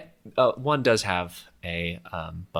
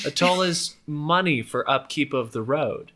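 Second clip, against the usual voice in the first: higher-pitched roadside swindler, politely questioning; toll collector explaining; 6 semitones higher than usual. Acted. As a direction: explain it like an official toll-taker. Game master plays toll collector.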